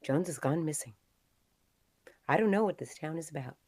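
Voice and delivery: ordinary talk, nothing marked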